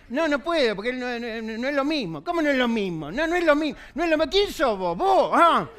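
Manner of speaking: inner argument. Acted. Arguing with himself while running.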